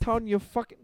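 high, loud mock outburst; angry yell. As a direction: yell it like a furious gangster. Imitating a show line.

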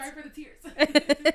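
crying, sorry for the tears; tearful apology. Real, not acted. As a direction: apologize while still choked up. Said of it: "I'm sorry, guys".

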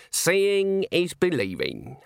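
put-on unhurried, composed old witch; calm. A narrator's reading. Old witch answers the man who searched the room, calm. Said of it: "said Granny calmly".

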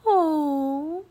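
high, drawn-out tender "oh"; soft cooing. A narrator's reading. Annie uncovering a tiny raven, tender coo. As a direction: coo over a tiny creature. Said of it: "she said softly".

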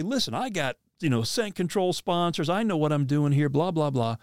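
cocky. Retold or imitated. Hunter getting cocky with God about his expertise, mock self-important. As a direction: brush off advice with cocky impatience. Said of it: "I'm getting cocky".

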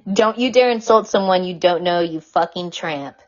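lightly voiced ranting man; Joe Francis impression. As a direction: read the insults like a mock furious sleaze. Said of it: "my best impression of Joe Francis".

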